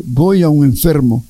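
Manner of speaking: a touch of sorrow in Jesus's answer; mildly sad Jesus. Retold or imitated. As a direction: say it with understated sadness. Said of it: "todo triste".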